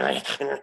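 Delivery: short snorting pig noises; imitated pig noises. Retelling the possessed girl's noises, mock pig snorts. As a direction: imitate someone making piggish grunts. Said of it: "making these noises".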